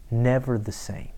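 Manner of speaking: soft whispered close; hushed whispered ending. Real, not acted. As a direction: breathe it out in a whisper.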